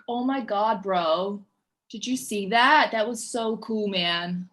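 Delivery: light LA surfer drawl, mildly done; a hint of a laid-back California surfer; LA accent. Shown as a demonstration. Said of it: "my L A accent".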